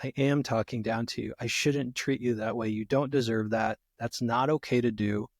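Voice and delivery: soft, low, sincere apology; a gentle, humble acknowledgement; accountable reply. Retold or imitated. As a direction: own it quietly and calmly. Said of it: "and I go".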